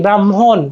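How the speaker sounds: ব্রাহ্মণ as "bram-hon" with an h; audible h. Shown as a demonstration. Teacher stating the pronunciation, ব্রাহ্মণ with h after m. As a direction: let the h be heard in ব্রাহ্মণ. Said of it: "একটা হ উচ্চারণ আসতেছে না".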